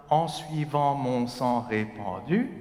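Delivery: "En suivant mon sang répandu" slow and unbroken; one breath line. Shown as a demonstration. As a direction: carry "sang répandu" to the end. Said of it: "don't stop until the end".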